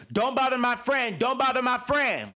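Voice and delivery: high, insistent mock warning; protective friend. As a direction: stand up for your friend, repeating it. Rolly defending Scarface.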